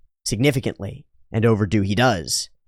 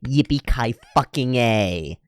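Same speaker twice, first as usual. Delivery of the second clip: slow sarcastic cheer; much slower than usual. Pretend. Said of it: "You've reached level five".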